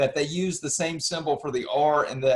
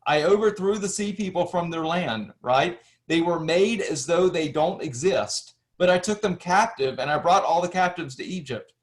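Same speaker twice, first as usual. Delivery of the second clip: reading an ancient inscription; 3 semitones higher than usual. Shown as a demonstration. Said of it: "but then read on".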